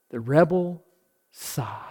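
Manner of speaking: fading into a whisper on sigh; sighed words. Shown as a demonstration. Preacher showing the rebel sigh, fading to a whisper. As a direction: let the phrase die into a breathy whisper.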